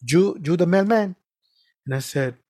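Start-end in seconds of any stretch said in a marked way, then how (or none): 0.0-1.1 put-on young guy's Spanish-accented question; heavy Spanish accent. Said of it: "he has a heavy Spanish accent".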